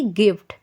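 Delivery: गिफ्ट said loud and clipped as a model word; stress demo. Shown as a demonstration. Teacher showing students where the stress falls, loud. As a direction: punch गिफ्ट out clearly for the class. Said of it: "जी के बाद एफ पे हम लोग ज़्यादा एक तरह से stress देते".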